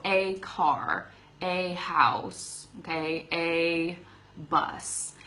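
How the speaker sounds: slow, careful example words; slow demo. Shown as a demonstration. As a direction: say each example slowly and clearly. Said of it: "starts with a consonant".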